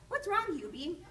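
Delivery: high, startled question; surprised mom. Acted. Mother surprised by son at night, high and startled. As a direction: rise up in surprise on what's.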